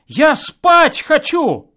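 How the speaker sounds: mock his whining; mocking echo. A narrator's reading. Neighbour mimics the guest's plea, mocking and loud.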